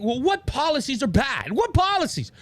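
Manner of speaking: high-pitched mimicry of clueless commenters; mocking, high-voiced disbelief; mock incredulous. Mocking commenters' challenge in acted quote.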